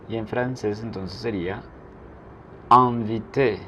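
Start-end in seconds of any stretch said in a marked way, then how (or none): 2.7-3.6 "inviter" with "in" as one nasal vowel, no separate n. Shown as a demonstration. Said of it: "la N hace que la I sea nasal".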